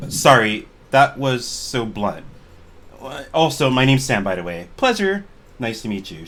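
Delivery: inappropriately perky introduction; bubbly, with punched words and pitch leaps; very energetic. Acted. Sam introducing herself to adventurers, very energetic. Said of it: "she says with a very energetic".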